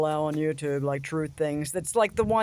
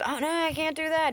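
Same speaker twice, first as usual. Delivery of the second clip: mock refusal; 8 semitones higher than usual. Mocking a refusal.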